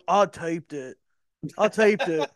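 put-on loud, high redneck kid. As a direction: brag like a hick kid.

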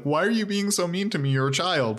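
lightly mock a hurt whine; whiny complaint. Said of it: "And Steve's like".

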